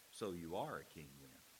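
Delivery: put-on, very sarcastic, dry, soft delivery. Speaker retelling Pilate's reply to Jesus, mock-sarcastic retelling. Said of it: "very sarcastically goes".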